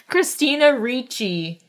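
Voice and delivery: laughing through the name; giggling while saying the name. Real, not acted. Laughing over name mixup.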